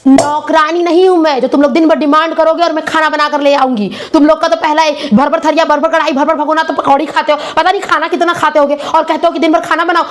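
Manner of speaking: acted brash, indignant rant; angry refusal. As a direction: lay down the law, stressing each refusal. Acted wife refusing to cook.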